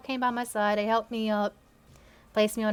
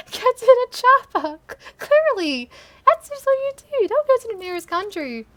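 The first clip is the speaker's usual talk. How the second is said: hammed-up shouting; mock action-hero shout; 13 semitones higher, 10 dB louder than usual. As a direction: bellow it like a cheesy action movie. Mock tough guy shouting order.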